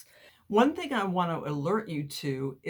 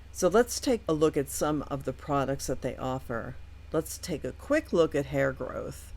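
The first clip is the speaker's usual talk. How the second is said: lisping, like cotton in the mouth; slight lisp. Real, not acted. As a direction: talk with a light lisp from a mouth appliance. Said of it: "I'm kinda lisping here".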